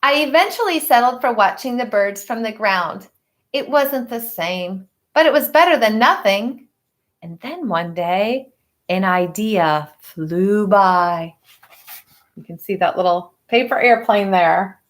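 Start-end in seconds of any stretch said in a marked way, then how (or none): 0.0-11.3 put-on reading a picture book to children; story narration. A narrator's reading. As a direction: tell it gently to the class. Teacher reads picture book aloud.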